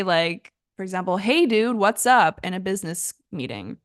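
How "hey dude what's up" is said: casual greeting. Shown as a demonstration. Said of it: "you don't wanna say".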